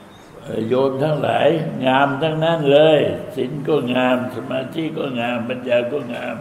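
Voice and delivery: slow, gently voiced teacher monk; a hint of the revered teacher, slowed down; quoting the teacher monk. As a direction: lightly play the old master blessing the laypeople. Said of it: "ท่านบอกว่า".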